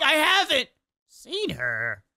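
slow, exaggerated guilty denial; mocking the tone. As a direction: drag it out like a bad liar. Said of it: "you're like, you're like".

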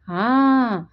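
high, bright eager announcement; a proud young wife eagerly announcing her dish. A narrator's reading. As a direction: sound thrilled with your cooking. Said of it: "అంది లక్ష్మి ఉత్సాహంగా".

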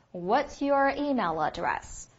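slow, clear "What's your email address"; slow model question. Shown as a demonstration. Teacher models the English question slowly for students. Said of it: "应该怎么问来着".

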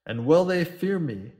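captain answering Nancy heatedly. Acted. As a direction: fire it back with heat. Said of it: "said the captain warmly".

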